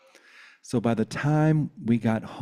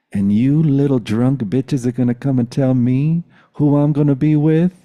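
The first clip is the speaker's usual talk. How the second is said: rising, louder challenge; indignant rebuke; 5 semitones higher, 6 dB louder than usual. Retold or imitated. Boyfriend telling off his drunk brothers, indignant rebuke. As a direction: build in outrage to the final word.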